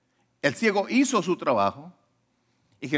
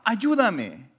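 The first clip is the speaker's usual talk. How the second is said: raised-pitch imitated cry for help; retold plea; 5 semitones higher than usual. Blind man asking Jesus for help, retold cry. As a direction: act out calling for help, without full volume. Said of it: "le gritaba".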